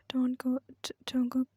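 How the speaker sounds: drowsy, half-awake pleading; sleepy voice. Acted. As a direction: murmur it as if nearly asleep. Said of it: "You spoke in a sleepy voice".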